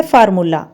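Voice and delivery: फार्मूला said the common wrong way; wrong pronunciation. Shown as a demonstration. Teacher showing the wrong फार्मूला. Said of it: "मैंने गलत pronounce किया है".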